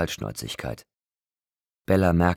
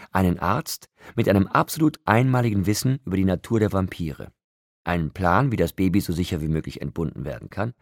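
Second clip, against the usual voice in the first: lightly voiced, higher, emphatic woman; scornful Rosalie; 4 semitones higher, 4 dB louder than usual. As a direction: lecture with raised pitch and disdain. (leicht angedeutete verächtliche Frauenstimme)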